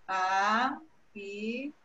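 HAITI split slowly into separate syllables. Shown as a demonstration. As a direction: say Haiti in pieces, a pause between each syllable. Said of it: "pede pra separar as sílabas".

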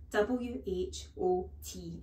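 put-on slow, careful little boy spelling; a hint of a nervous schoolboy; lightly voiced boy. Eric spelling with a child's voice.

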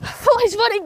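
grand, slow announcer voice; award show announcer. Pretend. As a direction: announce the winner with fanfare. Mock award presentation.

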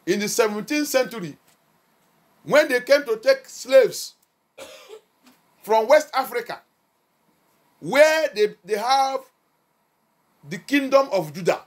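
loud, deliberate proclamation; forceful preaching. Real, not acted. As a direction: declaim history from the pulpit, pausing between phrases. Preaches history to congregation forcefully.

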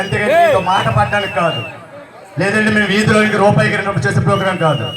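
imitating Chandrababu Naidu addressing the crowd; Chandrababu Naidu impression. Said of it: "Chandrababu Naidu voice చేద్దామని". (చంద్రబాబు నాయుడు గొంతు అనుకరణ)

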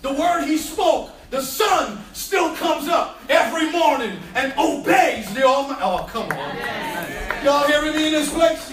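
preaching at full force. Acted. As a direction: ride the wave of the sermon. Preaching climax, shouting.

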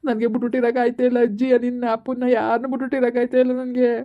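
son crying to his mother; tearful pleading. Acted. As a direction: plead between sobs. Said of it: "ಸುಮ್ಕಿರು, ಆಯ್ತು ಅಳ್ಬೇಡ". (ಅಳುತ್ತಾ ಅಂಗಲಾಚುವ ಧ್ವನಿ)

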